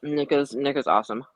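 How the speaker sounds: talking while crunching M and Ms; crunching candy. Real, not acted. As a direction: speak through a mouthful of crunchy candy. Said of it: "Sorry, I'm crunching on my M and M".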